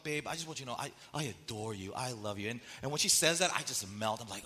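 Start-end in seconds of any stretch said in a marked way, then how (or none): 0.0-2.5 adoring wife. Retold or imitated. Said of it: "she'll just come up".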